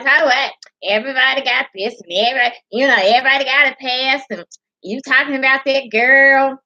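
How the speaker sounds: sassy, fast mimicked rant; ghetto-woman imitation. Vlogger replaying the woman's comment, sassy imitation. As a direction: rattle it off like the brash commenter. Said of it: "she just like".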